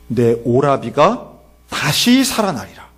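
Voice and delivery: slow, solemn declaration; Jesus's pronouncement. Acted. Jesus promises Martha her brother will rise, slow pronouncement. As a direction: stretch it out with weight on 다시. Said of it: "예수님이 놀랍게도 이런 말씀을 하세요".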